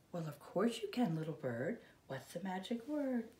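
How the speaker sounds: soft tender mother voice; mother bird welcoming her chick; gentle mama. Acted. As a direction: coax the little one softly. Mother bird answers kindly.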